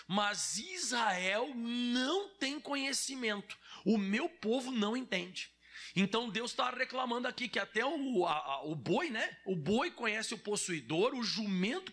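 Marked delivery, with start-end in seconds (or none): 0.1-5.6 emphatic scripture reading. Acted. Scripture verse read out emphatically.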